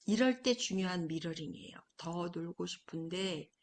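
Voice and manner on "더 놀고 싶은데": 공감하는 엄마. Shown as a demonstration. 엄마의 공감 미러링 시범.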